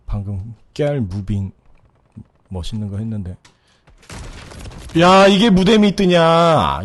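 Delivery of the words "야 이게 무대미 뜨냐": slow, loud drawn-out outrage; can't believe it didn't register; loud disbelief. Real, not acted. Disbelief at missed headshot. (느리고 큰 황당한 외침)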